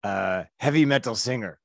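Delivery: lightly done Norwegian accent, a mock big metal singer; a hint of Norwegian in the vowels, half-hearted; bad Norwegian accent. Comedian retelling a Norwegian fan's words, mild Norwegian accent. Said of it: "I'm massacring this accent".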